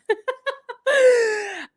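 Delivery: high bright giggle. Real, not acted. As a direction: giggle at the thought. Laughs about puppies.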